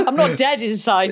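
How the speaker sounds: said through real laughter; laughing. Real, not acted. Joking with her co-host, said through laughter. Joking about fancying Bradley Cooper.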